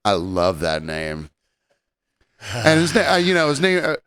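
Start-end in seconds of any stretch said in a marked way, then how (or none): 0.0-1.3 low, slow mock-sultry purr; drawn-out fake admiration; flirty woman. Flirty woman quoted, name.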